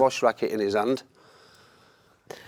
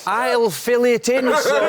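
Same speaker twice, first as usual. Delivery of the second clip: imitating the boss; 12 semitones higher, 5 dB louder, much slower than usual. Boss quoted filling blank contract.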